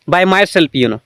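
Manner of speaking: normal talking voice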